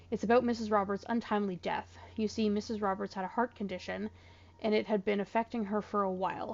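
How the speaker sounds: letter reading. Acted. Reads the in-game letter aloud.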